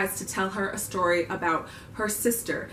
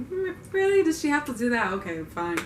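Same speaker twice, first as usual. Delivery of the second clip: high incredulous really, then grudging okay fine; skeptical disbelief; 5 semitones higher than usual. Retold or imitated. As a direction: question it in mock disbelief, then give in. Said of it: "I was like".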